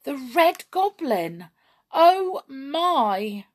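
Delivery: high, loud cries of alarm; very upset. A narrator's reading. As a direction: exclaim in horrified dismay. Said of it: "feeling very upset indeed".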